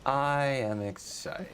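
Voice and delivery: slow, deadpan, no enthusiasm; flat unexcited. Retold or imitated. Host mocking his co-host's bored reply, slow and flat. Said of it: "You sounded so not excited".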